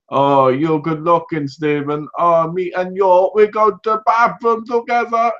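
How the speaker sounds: slow, drawn-out female impression; woman's voice. Woman sweet-talking Stephen about the bathroom, put-on female voice rising high. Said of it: "it's supposed to be a woman".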